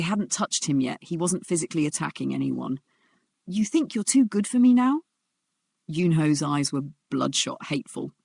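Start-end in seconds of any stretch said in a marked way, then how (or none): 3.5-5.0 high, louder sneering taunt; sneering anger. Acted. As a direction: sneer at her with contempt. Drunk ex sneering at her.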